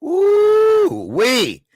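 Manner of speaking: high, loud, drawn-out ooh-wee; real astonished exclamation. Real, not acted. Host reacting to the interview clip, astonished. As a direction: let out a long high whoop of disbelief.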